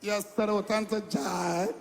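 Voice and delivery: mock American accent with "joy" stretched out; put-on American accent; imitated American accent. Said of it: "Is that how I said it again?".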